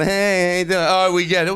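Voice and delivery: lightly mocking overly chummy customer; mock over-friendly. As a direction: imitate someone a bit too friendly. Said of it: "they act too friendly".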